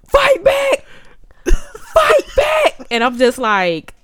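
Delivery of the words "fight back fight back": Scotty yelling at the TV. Retold or imitated. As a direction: cheer on the fighter like a hyped fan, much higher. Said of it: "Scotty's yelling at the T V screen".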